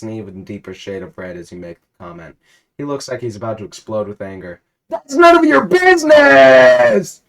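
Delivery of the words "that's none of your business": screamed, high furious yell; furious high shouted outburst; angry shout. Acted. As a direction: explode at him in rage. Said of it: "he growls".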